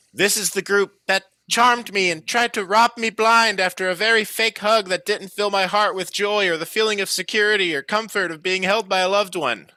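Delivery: high, loud, aggrieved accuser; indignant Ewan. Acted. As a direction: pitch it way up and accuse loudly. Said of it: "faced his accusations. Ewan said".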